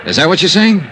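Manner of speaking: incredulous. Acted. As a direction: press her on it, not believing a word. Questions her claim in disbelief.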